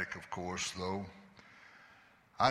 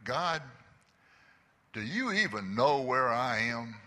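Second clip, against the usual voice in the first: crying out to God; 4 semitones higher, 3 dB louder than usual. Retold or imitated. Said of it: "I just cried out".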